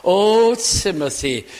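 a loud, pained call to a dear friend; aching cry. Retold or imitated. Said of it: "almost the ache in his heart".

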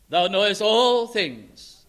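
humble confession. Acted. Peter's humble confession, slowed.

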